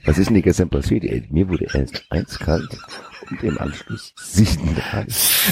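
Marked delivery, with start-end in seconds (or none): 1.0-5.5 dramatic reading. Pretend. Mocking the book's dramatic line.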